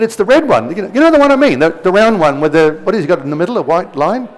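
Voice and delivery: high, lilting imitation of a policeman explaining; exasperated policeman. Acts out exasperated policeman explaining sign.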